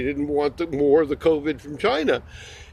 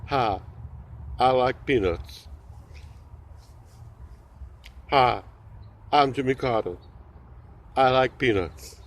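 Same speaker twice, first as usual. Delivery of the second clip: Jimmy Carter impression; 4 semitones lower, 5 dB quieter than usual. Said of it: "my impression of former President Jimmy Carter".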